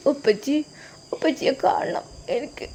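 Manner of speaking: a small daughter begging to see her father; pleading little girl. Acted. Daughter begging for her father, soft childlike plea. Narrator voices little Aishu.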